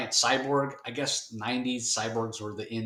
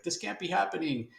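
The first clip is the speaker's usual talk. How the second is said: shocked thug; 8 semitones higher than usual. Retold or imitated. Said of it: "the guy's like".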